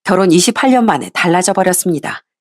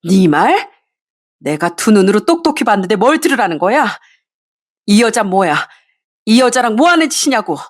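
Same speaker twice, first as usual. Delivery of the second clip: furious wife; 2 semitones higher than usual. Acted.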